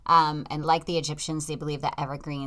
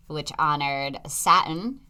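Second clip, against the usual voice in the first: Boston r-less Saturn; Boston accent; 3 dB louder, slower than usual. Real, not acted. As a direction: Saturn said the Massachusetts way. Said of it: "with an R?".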